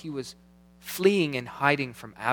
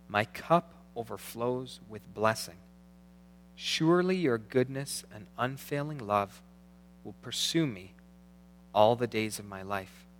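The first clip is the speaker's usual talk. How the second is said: slow, measured psalm reading with long pauses; unhurried scripture reading, phrase by phrase. Real, not acted. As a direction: read it slowly, letting each line settle. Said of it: "I'll try and read this slowly".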